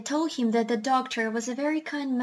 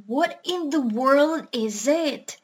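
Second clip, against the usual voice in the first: puzzled doctor; 3 semitones higher, 3 dB louder, slower than usual. Acted. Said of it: "asked John Dolittle".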